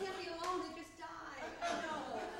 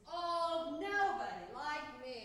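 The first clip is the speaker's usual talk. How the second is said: hushed despair building to a loud lament; melodramatic abandoned lover; 3 semitones lower, 3 dB louder, slower than usual. Acted. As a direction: play a forlorn stage diva left alone. Monologue, abandoned and alone.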